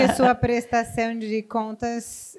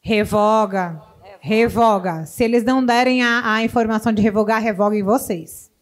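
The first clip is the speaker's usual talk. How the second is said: emphatic loud urging; 5 dB louder than usual. Real, not acted. Urging audience to revoke certificate.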